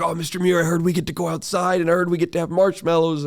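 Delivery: mock-eager students; eager kids. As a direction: gush like a thrilled student. Kids eagerly telling teacher.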